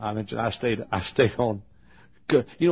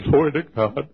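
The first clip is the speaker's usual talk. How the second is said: retold joyful shout; 3 semitones higher, 5 dB louder than usual. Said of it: "I was hollering and screaming".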